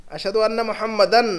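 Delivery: "मुहम्मदन" with a long final "an"; stressed "an" ending. Shown as a demonstration. Teacher quoting the azan, drawing out "an" in "मुहम्मदन". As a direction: hold out the "an" closing "मुहम्मदन". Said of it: "कभी ज़बर लग रहा है".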